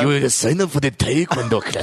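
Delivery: lightly put-on Asian accent, stern; a hint of a mock Asian accent giving orders. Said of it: "Where do you get that Asian accent?".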